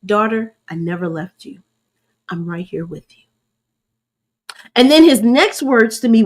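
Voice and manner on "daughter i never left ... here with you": softer, tender reassurance; gentle voice of God. Retold or imitated. God comforting his grieving daughter, soft and tender. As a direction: speak it like a loving father to his daughter. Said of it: "He said it just like this".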